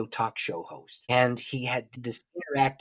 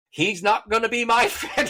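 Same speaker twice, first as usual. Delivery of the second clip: laughing; 11 semitones higher, 6 dB louder than usual. Real, not acted. Resolving to avoid the mocking comedian.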